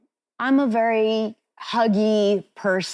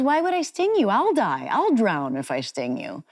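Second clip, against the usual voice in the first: innocent scorpion; 3 semitones higher than usual. Retold or imitated. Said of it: "And he goes".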